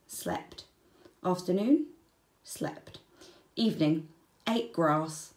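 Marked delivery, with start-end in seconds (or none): 0.1-0.6 whispered, drowsy slept; sleepy whisper. A narrator's reading. Sleepy wombat diary entry. 2.4-3.0 whispered, drowsy slept; sleepy whisper. A narrator's reading. Sleepy wombat diary entry.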